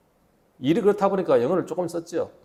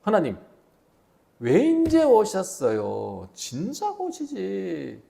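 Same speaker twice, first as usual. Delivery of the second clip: eager complaint; 2 semitones higher, much slower than usual. Pretend. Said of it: "만약에 이렇게 말했다고 생각합시다".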